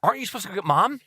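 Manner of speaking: high-pitched mock call to Dad; retold calling out. Kids rousing their dozing father, calling out in mock alarm. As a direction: call out "Dad" high, then question him.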